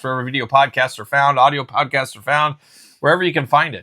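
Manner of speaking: breathless, running out of air; gasping slightly at the end of the read; out of breath. Real, not acted. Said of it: "You're running out of breath".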